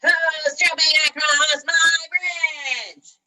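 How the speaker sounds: slow, high, loud bellow; angry storybook troll shout; troll's roar. A narrator's reading. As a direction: roar it with long drawn-out words. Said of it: "again the troll roared".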